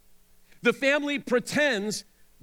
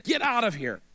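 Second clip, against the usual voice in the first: snarled. A narrator's reading. Amnon driving Tamar away, snarling. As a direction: spit it at her in contempt. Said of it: "he snarled at her".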